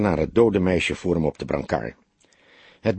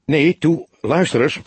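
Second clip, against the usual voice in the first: higher, louder, pleading; desperate plea; 7 semitones higher, 4 dB louder than usual. A narrator's reading. Young detective begging his old mentor on the phone, desperate. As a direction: beg him not to hang up. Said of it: "riep Fledder wanhopig".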